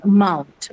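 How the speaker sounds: "mount" with the opening schwa nearly swallowed; schwa barely audible. Shown as a demonstration. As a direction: say amount as a bare "mount". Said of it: "the uh that you see there is basically a schwa sound".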